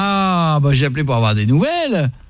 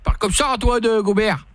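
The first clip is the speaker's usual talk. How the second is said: put-on local French accent; 5 semitones higher than usual. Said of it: "Prends plus l'accent".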